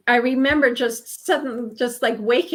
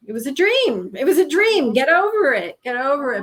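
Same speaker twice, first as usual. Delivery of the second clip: imitating the husband, higher and louder, brushing it off; dismissive husband; 4 semitones higher, 4 dB louder than usual. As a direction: wave it away like an impatient husband. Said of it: "he just kept saying".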